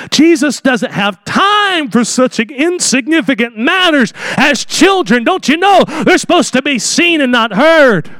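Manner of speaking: a mildly voiced indignant disciple; hammed-up brushing off the children; mock Peter outcry. Peter scolding parents for bringing children, mock indignant. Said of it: "I can almost hear old Peter cry out".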